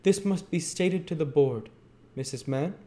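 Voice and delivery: high, pompous pronouncement; imperious beadle. A narrator's reading. Bumble threatening to report to the board, imperious. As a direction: declare it with official weight. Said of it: "said Mister Bumble imperiously".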